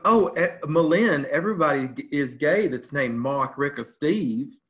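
lightly voiced movie-character impression; Olympia Dukakis. Retelling a Steel Magnolias line, light character impression. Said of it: "Olympia Dukakis said in the movie".

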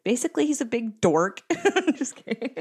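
high nervous giggle; giggling. Real, not acted. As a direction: laugh through the words. Nervous giggles teasing husband.

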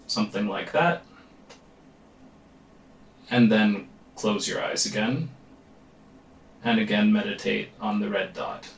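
calm, measured meditation guide with long pauses; guided meditation. Real, not acted. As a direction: lead them gently into focus, leaving space between phrases. Leads a meditation.

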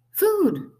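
loud, high hungry peep; piercingly high little chick cry; tiny gosling voice. A narrator's reading. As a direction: demand it like a hungry baby bird. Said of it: "That tiny voice".

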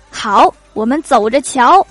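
mock threat. Rejected suitor slowly, loudly vows the girl will change her mind. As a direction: say it slowly, like throwing down a mock gauntlet. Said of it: "要约架呀？".

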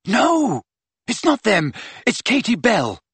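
high-pitched, hurried reassurance over wind; urgent correction. A narrator's reading. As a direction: break the news urgently. Harry urgently corrects Hagrid.

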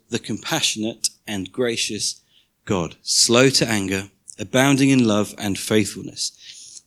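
measured, solemn Bible reading; scripture reading. Acted. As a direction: read the verse to the congregation with weight. Continues reading the passage.

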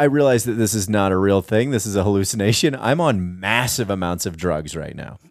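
low, measured reasoning that slows at the end; mock rational self-talk. Listener playing the tripping raver reasoning it out, mock rational calm.

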